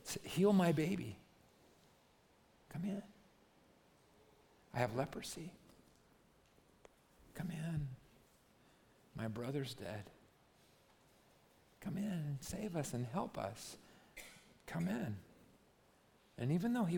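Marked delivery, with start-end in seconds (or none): 0.0-1.2 pleading crowd. Retold or imitated. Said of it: "And they're like". 2.7-15.2 pleading crowd. Retold or imitated. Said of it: "and they're yelling".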